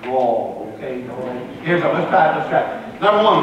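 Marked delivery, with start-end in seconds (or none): 0.0-1.3 southern accent. Shown as a demonstration. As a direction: Draw stretched into a southern drawl, lower. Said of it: "You gotta say it with that southern accent".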